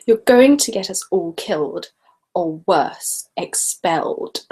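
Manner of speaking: lightly voiced prim scolding schoolgirl; a hint of a bossy schoolgirl; Hermione. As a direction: scold them, drawing out the last word. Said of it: "I could probably do Hermione".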